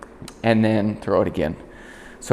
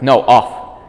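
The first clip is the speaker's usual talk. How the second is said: a firm, louder "No, off" to the dog; firm command; 6 dB louder than usual. Shown as a demonstration. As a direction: snap the command at the dog so he gets down. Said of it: "I accompany that with".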